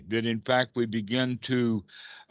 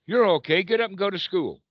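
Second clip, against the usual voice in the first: mock cheery pep talk; 7 semitones higher, faster than usual. Teacher mimicking a pep talk to yourself, brisk and higher. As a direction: chivvy yourself along like a cheerful parent.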